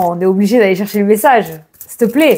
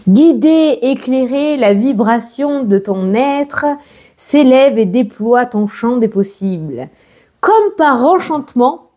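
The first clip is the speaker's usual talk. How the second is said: slow, gentle reading of a card message; slower than usual. Acted. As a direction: read it like a soothing oracle message. Reads the card message aloud.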